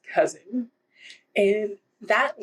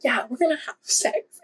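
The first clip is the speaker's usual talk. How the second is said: higher, put-on flirty heroine voice; mock seductive; 6 semitones higher than usual. Jilted bride propositions her husband's cousin, hammed-up seductive voice. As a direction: play her vamping it up for revenge.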